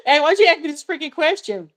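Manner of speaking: high, laughing mock complaint; real laughter breaking through a teasing gripe; laughing protest. Real, not acted. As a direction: laugh it off while scolding the asker. Laughing complaint after near tears.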